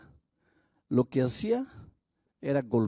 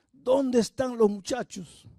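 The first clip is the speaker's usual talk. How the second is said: angry demand, repeated; 9 semitones higher, 4 dB louder than usual. Retold or imitated. Husband repeats demand, harsher.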